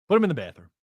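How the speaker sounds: \"Put him in the bathroom\" called out high and gleeful; joking call. Real, not acted. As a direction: throw out \"Put him in the bathroom\" as a cheeky joke. Joking call about the trade.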